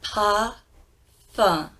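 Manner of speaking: parfum ending nasal, no M; French parfum. Shown as a demonstration. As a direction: say parfum, dropping the M. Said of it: "No M".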